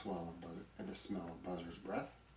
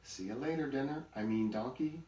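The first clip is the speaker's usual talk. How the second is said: loud, higher teasing farewell; laughing tease; 6 semitones higher, 6 dB louder than usual. A narrator's reading. Buzzard seeing off the donkey, loud and amused. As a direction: call out a jokey slip, amused.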